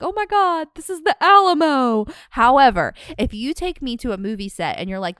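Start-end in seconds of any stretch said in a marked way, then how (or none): 0.0-2.0 high, breathy-free gush of fake wonder; mock gushing over a landmark; mock awed tourist. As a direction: gush like a wide-eyed tourist, hammed up. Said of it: "being like".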